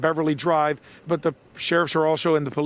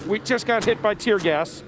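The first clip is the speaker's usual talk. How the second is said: laughing from tear gas; 5 semitones higher than usual. Real, not acted.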